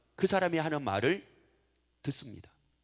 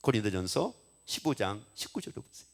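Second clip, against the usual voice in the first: normal talking voice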